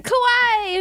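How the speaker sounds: put-on high excited squeal of a fangirl teen; shrill mock fangirl cry; squealed kawaii. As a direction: squeal it like a fourteen-year-old fan. Kids yelling kawaii.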